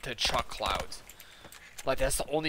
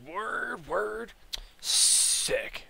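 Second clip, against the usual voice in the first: high rising words into hissed relish; mock excited approval; 9 semitones higher, much slower than usual. Customer offered coils for ten bucks, excited. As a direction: imitate an eager guy, voice pitched up.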